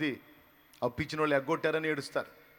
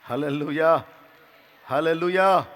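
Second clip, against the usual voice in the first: louder ringing hallelujah; preacher rousing the congregation; hallelujah shout; 10 dB louder, slower than usual. Real, not acted. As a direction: call it out to the church. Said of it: "calls out to the congregation".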